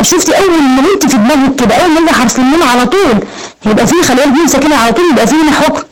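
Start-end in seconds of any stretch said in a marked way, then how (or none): none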